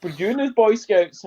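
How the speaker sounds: high, loud plummy posh man. Retold or imitated. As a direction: put on a plummy toff voice. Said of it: "a proper plum posh voice".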